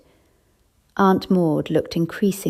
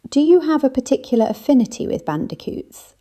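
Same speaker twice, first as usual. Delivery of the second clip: prompting; 8 semitones higher, faster than usual. A narrator's reading. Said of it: "I prompted her".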